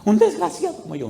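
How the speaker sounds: imitated desperate outburst; mock yell. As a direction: wail it as the distraught man. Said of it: "Y él gritaba".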